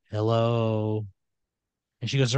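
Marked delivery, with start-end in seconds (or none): 0.1-1.1 workers in unison. Acted. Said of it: "And they all go".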